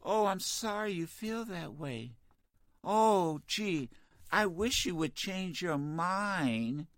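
soft, slow sarcastic apology; mock the polite answer he refuses to give; hushed, slowed fake sympathy; mock meek apology. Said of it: "What do you want me to say to him?".

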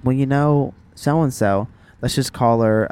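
imitating a Southern mom; a touch of matter-of-fact Southern twang; Southern accent. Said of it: "saying this in a Southern accent".

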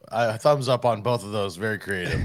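like calling from a 1940s phone; over the phone. Real, not acted. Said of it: "you sound like you're in a, a nineteen forties telephone".

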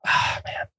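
soft near-whispered sigh into ah man; a real sigh holding back tears; tearful sigh. Real, not acted. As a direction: let it out on a shaky exhale, barely voiced. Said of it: "I'm gonna cry now".

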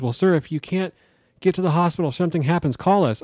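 mock dispatcher voice. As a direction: imitate the calm dispatcher. Dispatcher quoted, higher.

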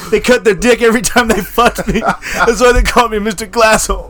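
high, strained character whine; mock Mister Glass voice. Comic as Mister Glass explaining his nickname, high mock whine. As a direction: put on a high plaintive voice.

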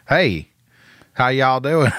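exaggerated Southern hello breaking into a laugh; Southern accent. Shown as a demonstration. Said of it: "Mine is like".

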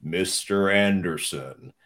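slow, drawn-out deliberate menace; a lightly voiced Agent Smith; Agent Smith impression. Imitating the friend doing Agent Smith at him. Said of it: "he thought I looked so much like Agent Smith".

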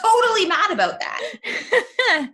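high, laugh-through words; giggling guiltily through it; laughing half-apologetically. Real, not acted. Laughing confession about Roger.

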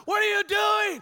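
high, loud angry coach shout; coach yelling. Retold or imitated. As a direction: bellow it from the sideline at your player. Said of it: "he's screaming".

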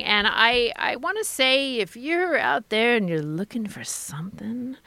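mock-seductive ad pitch sinking into breath; put-on come-hither voice; sultry Dipsea voice. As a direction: tease it like a sexy audio story. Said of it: "this is my Dipsea voice".

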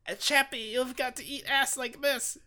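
hammed-up creature voice, drawn-out moans and stutter; high-pitched grotesque puppet creature, stretching the name; Skeksis from Dark Crystal. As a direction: slurp out a silly greedy creature voice. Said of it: "sounds like when it's eating ass".

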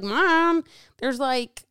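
a hint of her son in a fluster; teen son blurting about the microwave, mild mock panic; voicing her son. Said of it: "came into my office like".

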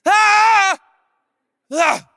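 loud high screams, the second one smaller; screaming alone in the bathroom. Retold or imitated. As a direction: scream out loud where nobody can hear. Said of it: "so I'm getting some volume".

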